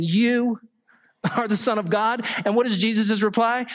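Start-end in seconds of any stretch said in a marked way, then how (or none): 0.0-2.2 a sneering rising "You are the Son of God?"; mocking question. Shown as a demonstration. Priest mocks Jesus with a scornful question. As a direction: ask it as a taunt. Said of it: "a mocking question".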